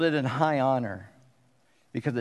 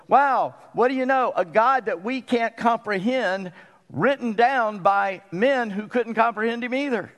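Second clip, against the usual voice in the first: higher-pitched, marveling wow; awed wonder; 7 semitones higher than usual. Acted. Preacher voices believers stepping back from Scripture, awed. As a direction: step back and marvel, stretching it out.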